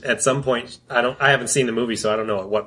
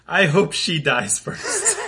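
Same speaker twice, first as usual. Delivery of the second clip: slow, higher delivery through a laugh; amused, drawn-out quote; laughing punchline; 5 semitones higher, slower than usual. Retold or imitated. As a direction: land the retold joke, barely holding back laughter. Retelling a comedian's punchline, laughing.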